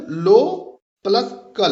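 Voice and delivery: लो and कल set apart as two syllables; split into syllables. Shown as a demonstration. Teacher counting the second foot, syllables set apart. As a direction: break लो from कल around the word plus. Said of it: "यहाँ पर दूसरा feet है".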